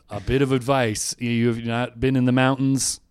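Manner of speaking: a light hint of a generic Uber driver accent; lightly imitating a friendly driver's accent; general Uber driver accent. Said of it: "my general Uber driver accent".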